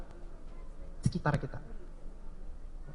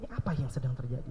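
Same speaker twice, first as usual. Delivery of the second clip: confused; 10 semitones lower, 14 dB quieter, faster than usual. Acted. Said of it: "pemuda itu bingung".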